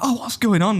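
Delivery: high-pitched imitation of a puzzled passenger; put-on high querying voice; old couple passenger. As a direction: lilt it up high like an older holidaymaker asking. Voicing tipsy old couple.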